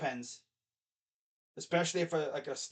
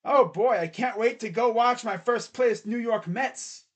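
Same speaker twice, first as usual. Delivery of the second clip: eager patient; 5 semitones higher, 5 dB louder than usual. Acted. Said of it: "the guy is probably like".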